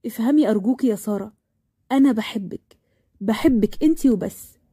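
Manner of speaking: earnest, subdued declaration of love; tender pleading. Acted. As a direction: reassure her gently after the argument.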